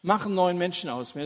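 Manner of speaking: sinner's plea. Acted. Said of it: "und sagt".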